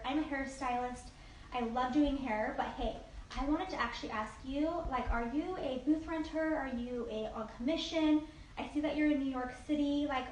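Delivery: lightly gushing, friendly networking voice message; chatty voice message. Shown as a demonstration. Hairstylist voice-messaging a stranger from the popular page, lightly gushing. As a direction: chat her up like a new girlfriend. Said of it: "So what I'm gonna do is this".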